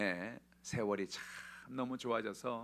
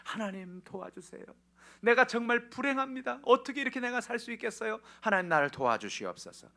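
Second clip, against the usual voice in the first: pitched-up anguished cry for help; acted tearful plea; 11 semitones higher, 7 dB louder than usual. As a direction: plead to God in mock weeping. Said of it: "하나님 앞에 나가서 웁니다".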